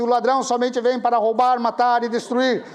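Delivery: leitura solene em voz alta, bem projetada; leitura bíblica. Retold or imitated. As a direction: proclamar o versículo pausadamente. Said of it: "cheguei no versículo dez e disse". (lendo a Bíblia em voz alta, com solenidade)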